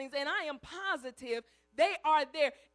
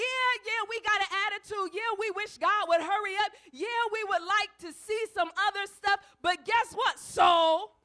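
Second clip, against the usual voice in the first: commanding soul; 4 semitones higher, 5 dB louder than usual. Retold or imitated. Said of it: "He said".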